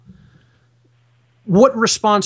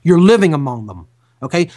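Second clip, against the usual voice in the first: ordinary talk, nothing marked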